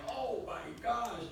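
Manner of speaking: high, drawn-out dismay; retold shock. Reacting to an online search, slow high shocked retelling. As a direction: stretch it out in appalled disbelief.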